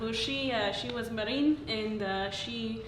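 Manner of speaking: put-on light Slovak accent; a hint of a Slovak accent. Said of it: "Slovak accent".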